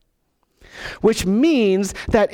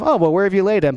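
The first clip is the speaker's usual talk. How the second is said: light, offhand shrug of a question; casual, offhand; much faster than usual. Shown as a demonstration. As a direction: toss it off casually. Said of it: "Not kind of".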